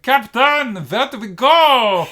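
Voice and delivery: put-on high, loud henchman call in a thick accent; drawn-out, accented pirate henchman yell; cartoon pirate henchman. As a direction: holler it up high in a muddled foreign accent. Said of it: "all his pirates are like".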